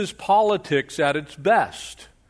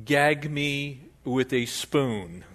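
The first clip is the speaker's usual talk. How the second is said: valley girl mock disgust; much slower than usual. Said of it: "This is like".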